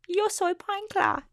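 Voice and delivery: mock Spanish. Joke Spanish line.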